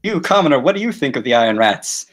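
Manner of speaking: lightly voiced speaker addressing a commoner; public questioner. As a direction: call on someone in the crowd. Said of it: "Just quietly whispering, like".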